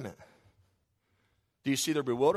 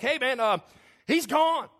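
breathless women; 7 semitones higher, 3 dB louder, slower than usual. Acted. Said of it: "They're like".

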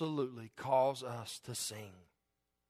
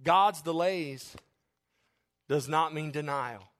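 slow, drawn-out emphasis; slower than usual. Real, not acted. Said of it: "You remember what I said".

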